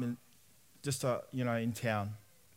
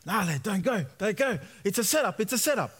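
warning mates; 4 semitones higher than usual. Retold or imitated. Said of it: "boys behind me speaking in Pig Latin saying".

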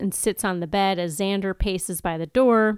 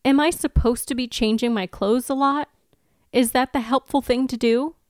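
higher, baffled questions; genuinely puzzled, a bit higher; confused Anya; 4 semitones higher than usual. Acted. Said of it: "have you be Willow".

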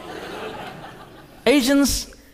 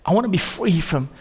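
tearful retelling; 2 semitones lower than usual. Retold or imitated. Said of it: "in a ball of tears".

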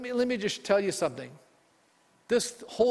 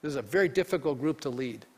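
Moses crying out. Retold or imitated. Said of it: "Then Moses cried out to the Lord".

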